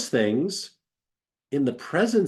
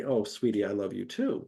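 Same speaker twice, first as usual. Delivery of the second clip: tender; 2 semitones lower, 4 dB quieter than usual. Retold or imitated. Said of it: "they're not gonna say".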